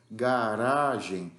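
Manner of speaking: garagem said slowly with a soft tapped R; slow garagem, light tap on the R. Shown as a demonstration. Teacher contrasts R sounds for students, soft tap. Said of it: "Esse R mais fraquinho".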